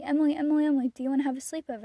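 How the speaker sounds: loud, fast eager calling of her name; calling her name all excited. Retold or imitated. Best friend texting her, eagerly calling her name.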